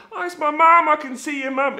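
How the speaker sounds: high, loud mock-delighted squeal; excited calling out. Rider waving to people from the top, excited calling out. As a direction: call out in childlike delight.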